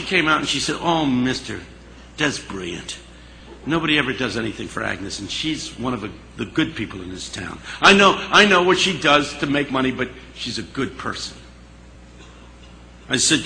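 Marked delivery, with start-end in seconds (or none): 0.8-11.4 tender praise. Retold or imitated. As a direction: speak gently about a friend. Woman speaking tenderly of Agnes.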